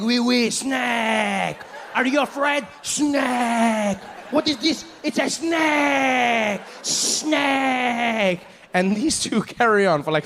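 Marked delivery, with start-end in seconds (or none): 0.0-8.4 high, slow, shouted taunts; mocking French dad. Father taunting the comic about snakes, high shouted jeers. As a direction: jeer snake at him, drawn out. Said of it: "And he's like".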